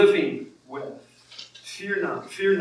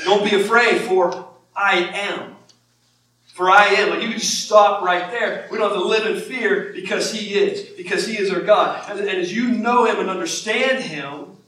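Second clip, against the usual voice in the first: raised, higher preaching voice; emphatic preaching; 4 semitones higher, 5 dB louder than usual. Real, not acted. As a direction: drive the assurance home, louder. Preaches emphatically on God's assurance.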